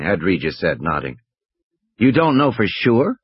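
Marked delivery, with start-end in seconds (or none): 2.0-3.2 mock surprise, raised a little; lightly feigned disbelief; affected astonishment. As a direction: pretend to be amazed. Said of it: "affecting astonishment".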